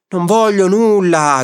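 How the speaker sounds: high, drawn-out refusal; angry shouting. A narrator's reading. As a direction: cry out in furious refusal. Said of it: "gridò zi Dima". (grido rabbioso, acuto e prolungato)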